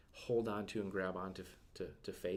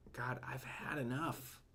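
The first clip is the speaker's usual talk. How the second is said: weary lament; 4 semitones higher than usual. Retold or imitated. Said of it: "Did you catch that?".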